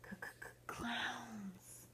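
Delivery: hushed, whispered stutter; frightened stammer. Acted. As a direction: stammer it out under your breath. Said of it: "Chucky started stammering".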